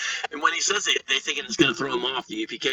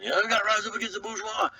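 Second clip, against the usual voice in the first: lightly voiced college kid, higher pitch; imitated college activist; 7 semitones higher, faster than usual. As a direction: mimic an earnest young Marxist, pitched up a little. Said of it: "here's what he's doing".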